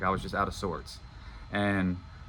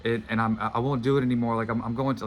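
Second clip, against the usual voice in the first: higher, louder urgent pleading to his wife; passionate plea; 4 semitones higher, 5 dB louder than usual. Retold or imitated. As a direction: pour it all out, begging her to believe him. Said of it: "going off on this thing".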